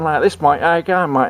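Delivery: mock Aussie twang; Australian accent. Storyteller mimicking potato eaters, mock Australian accent. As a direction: put on a light Australian accent. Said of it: "speaking like an Australian".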